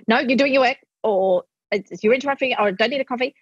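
a firm no from a busy parent; sharp refusal. Shown as a demonstration. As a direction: snap the kid back to work. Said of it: "not go".

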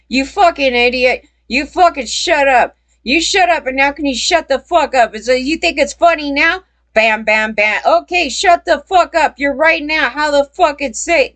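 mock berating mom, voice pitched well up; scolding mother. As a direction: imitate a mother cursing out her little boy in a high, rapid-fire rant. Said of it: "So this is his mother talking to Johnny".

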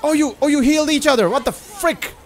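high, indignant squeal of disbelief; outraged disbelief. Real, not acted. Gamer outraged at enemy drones healing each other, high indignant squeal. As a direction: squeak out the outrage at the cheating enemies.

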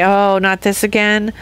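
resigned, fed-up sigh of a line; dreading the same thing again; weary complaint. Shown as a demonstration. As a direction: groan it out like a tired chore. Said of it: "I can make two choices".

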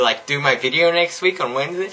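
put-on valley girl ask, upturned on week; breezy valley girl favour request; mock valley girl accent. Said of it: "I really can't do this accent".

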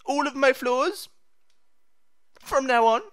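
high cartoon sailor voice, drawn out; a hammed-up Popeye proclamation. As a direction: sound like Popeye declaring. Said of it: "it's Popeye speaking".

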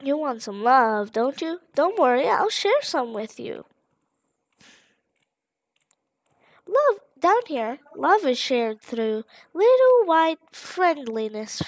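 lightly voiced friendly flower, chirpy; sweet-talking the player, a hint of sugary; cheery flower. Flower coaxing the player, lightly sugary.

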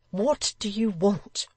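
high, slow anxious question; anguished woman's voice, drawn out; distressed widow. A narrator's reading. Distressed widow questions the threatening visitor.

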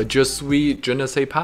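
put-on halting French with a Canadian accent; broken Canadian French. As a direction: stumble through French like a Canadian. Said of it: "That's my broken Canadian French".

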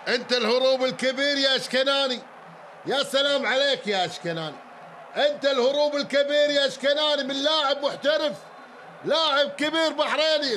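proud call of the great escape; excited praise. Real, not acted.

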